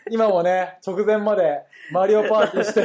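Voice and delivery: out of breath from laughing; panting a little after a laughing fit; after laughing hard. Real, not acted. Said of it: "ちょっとハーハー言っちゃってるんですけど".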